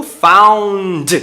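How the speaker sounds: found with both N and D said; slow found ending in a clear D; full N D. Shown as a demonstration. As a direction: land the D at the end of found. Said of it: "você tem N D".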